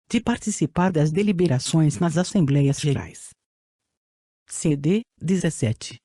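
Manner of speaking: robotic text-to-speech voice; even synthetic reading voice. Real, not acted. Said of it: "com a utilização de voz sintetizada". (voz sintetizada antiga)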